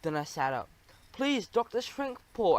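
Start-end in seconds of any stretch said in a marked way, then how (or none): 1.1-2.6 slow, high-pitched plea; high squeaky begging; pleading squeak. A narrator's reading. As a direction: squeak it out imploringly. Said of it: "I squeaked".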